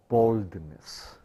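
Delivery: ordinary delivery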